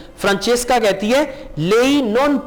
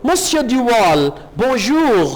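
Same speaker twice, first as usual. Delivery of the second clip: slow, drawn-out mock copy of Duval's greeting; slow mimic of the French greeting; imitating Duval; much slower than usual. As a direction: echo the Frenchman as a playful copy. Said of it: "Mario भी उनकी नकल उतारता है".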